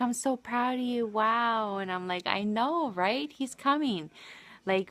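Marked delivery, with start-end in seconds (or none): 0.0-1.8 higher-pitched, imitating a proud friend; proud exclamation, pitched up; retold delight. Retold delighted reaction to good news. 2.3-4.1 higher-pitched happy agreement; lightly excited, voice lifting; retold excitement. Retold excited reply to good news.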